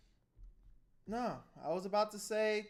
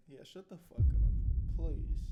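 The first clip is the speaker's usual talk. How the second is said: louder, slow mock snarl at the killer; imitating the father; 8 dB louder, slower than usual. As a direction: voice the dad's contempt. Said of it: "This guy's like".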